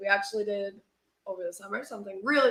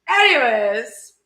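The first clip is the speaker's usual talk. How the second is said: drawn out; 4 semitones higher, 15 dB louder, much slower than usual. Real, not acted. Drawn out loud anyways.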